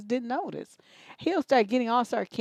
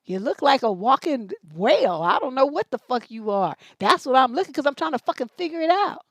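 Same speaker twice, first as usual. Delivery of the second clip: loud, higher mock retort; mock shouted retort; 3 semitones higher, 6 dB louder than usual. Host answering a rude man with a loud, higher mock retort. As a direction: bark back an insult.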